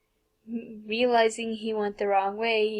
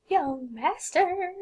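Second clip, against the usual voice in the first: long sing-song call; slow drawn-out call; 8 semitones higher, much slower than usual. Acted. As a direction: stretch it out high and slow. Drawn out call, laugh after.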